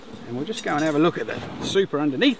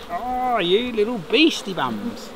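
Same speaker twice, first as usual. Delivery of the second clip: fond scolding; 3 semitones higher, much slower than usual. Real, not acted. Scolding the bees fondly.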